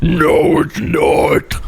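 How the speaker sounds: loud, rasping mock retort; mock objector. Tiny cozy gamer rejecting Firewatch, loud harsh mock objection. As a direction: push it out harshly as a hammed-up objector. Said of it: "She's gonna be like".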